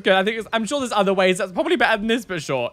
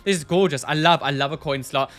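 normal talking voice

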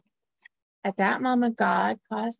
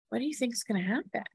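hushed question; 2 semitones higher, 5 dB quieter, much faster than usual. Real, not acted. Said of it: "asks young listeners, hushed".

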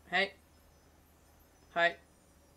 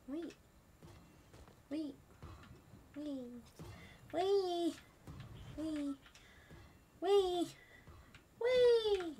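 rising panic; 9 semitones higher, 5 dB quieter, much slower than usual. Real, not acted. Panicking as danger approaches.

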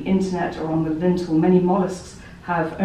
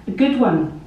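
repeating it a bit louder, insistent; 4 semitones higher, 4 dB louder than usual. Pretend. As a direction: say it again over the noise. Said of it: "they might repeat".

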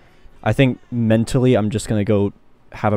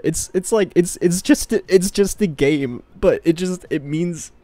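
tearful voice; 4 semitones higher, slower than usual. Real, not acted. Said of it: "fucking crying over it".

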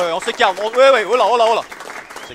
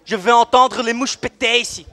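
stern order; 3 dB louder than usual. Acted. Cop demands silence.

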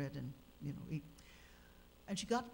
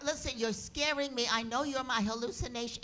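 scared pleading; 6 semitones higher, 4 dB louder than usual. Retold or imitated. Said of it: "scared of vision".

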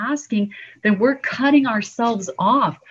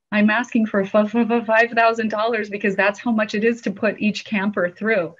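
retold stutter; 3 semitones higher than usual. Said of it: "I was literally stuttering".

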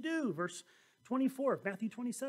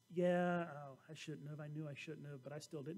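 sheepish confession; 7 semitones lower, 7 dB quieter than usual. Acted. Adam's imagined honest confession.

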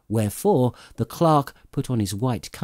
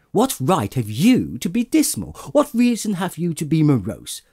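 gaily; 5 semitones higher than usual. Acted. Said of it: "returned the nephew gaily".

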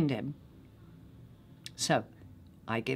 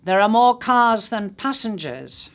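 sharp, higher and louder comeback; retorting; 5 semitones higher, 6 dB louder than usual. A narrator's reading. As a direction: fire it back at him. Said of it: "he retorts".

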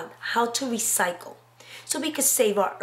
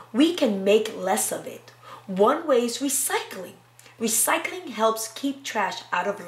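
put-on reading to children. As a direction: read it aloud to a class. Reads picture book aloud.

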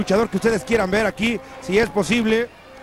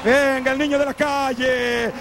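announcer shout; 2 semitones higher, slower than usual. Real, not acted. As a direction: call him out to the crowd. Announcing wrestler to crowd. (grito de anunciador)

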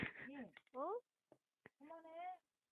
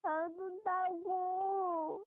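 slow, tearful insisting; crying; slower than usual. Real, not acted. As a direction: insist you aren't crying, teary. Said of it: "너 지금 울고 있어".

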